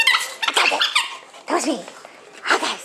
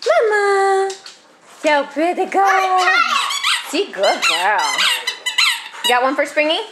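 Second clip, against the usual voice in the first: cooing at a dog. Real, not acted.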